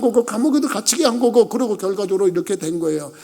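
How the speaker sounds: mildly impassioned plea in a preacher's cadence. Acted. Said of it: "그때 형들을 꽉꽉 붙잡고 울었어요".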